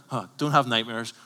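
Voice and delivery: mocking scoff, as if unconvinced; sarcastic. Preacher mocks the TV reassurance, scoffing. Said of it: "You're like".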